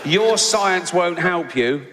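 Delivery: slow, heavy, emphatic reading of a capitals tweet; mock shouted tweet. Comic quoting a Texan's all-caps tweet, slow mock menace. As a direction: read it like a ranting all-caps threat. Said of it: "remember it's all in capitals".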